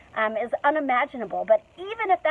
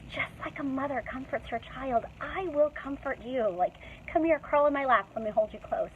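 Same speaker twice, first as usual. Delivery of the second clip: much softer, a gentle mother's comfort; tender and soft; 6 dB quieter than usual. Shown as a demonstration. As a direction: hush it like soothing a hurt child. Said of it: "And God says".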